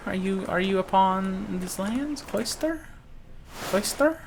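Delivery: high searching call, rising; high questioning call. Acted. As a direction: call out into the empty room. Calling out for a character.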